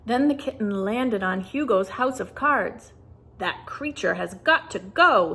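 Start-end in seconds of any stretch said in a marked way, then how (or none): 3.4-5.3 angry. Acted. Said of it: "he said angrily".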